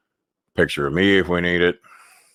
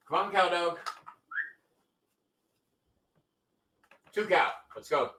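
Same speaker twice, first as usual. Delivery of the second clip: higher, coaxing pet voice; sing-song dog talk; 10 semitones higher, 10 dB quieter than usual. Real, not acted. Owner coaxing his dog to come along, sing-song pet voice.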